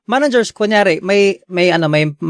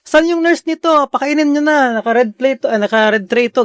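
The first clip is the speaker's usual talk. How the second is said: retold shout; 6 semitones higher than usual. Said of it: "sisigaw pa yung nagpapakain".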